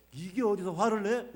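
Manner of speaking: mock angry scolding; slow, loud hammed-up rebuke. God's imagined angry scolding rejected.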